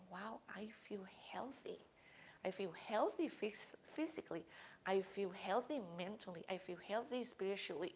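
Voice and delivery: opens in a whisper, then soft murmuring; hushed, content check-in with yourself; quiet self-talk. Retold or imitated. Teacher voicing a student's inner check-in, hushed. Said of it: "you can say".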